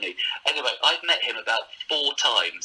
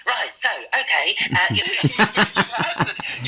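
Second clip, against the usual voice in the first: Bruce Forsyth impression; 8 semitones higher, 4 dB louder, much slower than usual. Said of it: "a terrible impression of them".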